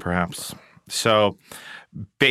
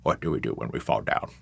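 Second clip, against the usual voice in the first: lightly voiced English butler; Alfred impression; 9 semitones lower than usual. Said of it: "quotes Alfred line".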